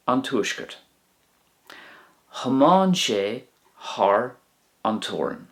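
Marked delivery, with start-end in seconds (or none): 2.3-5.5 slow model. Shown as a demonstration. Teacher modelling the Irish sentence slowly for learners. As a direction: draw out "Thiomáin sé thar" slowly. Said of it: "He drove across the border".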